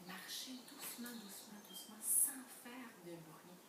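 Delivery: teacher softly demonstrates doucement for the class; softly demonstrating. Shown as a demonstration. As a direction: show what tiptoeing sounds like. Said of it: "ça veut dire".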